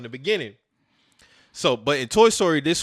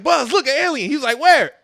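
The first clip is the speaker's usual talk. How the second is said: higher, louder fake alarm; mock alarm; 7 semitones higher, 6 dB louder than usual. Woody tricking Buzz, high fake alarm. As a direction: fake a sudden scare to trick him.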